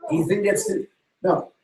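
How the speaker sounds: excited callout. Real, not acted. Preacher to a child in the room, high and playful. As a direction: cheer the little one on.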